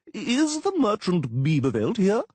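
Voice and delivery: high, slow, loud call; crowing official. Acted. Official calling for the merchant in the tavern. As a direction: crow out the question slowly.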